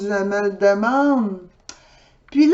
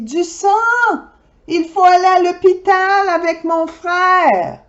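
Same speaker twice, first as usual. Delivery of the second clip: urgent alarm; 8 semitones higher, 3 dB louder than usual. Acted. Urgent plea to policeman.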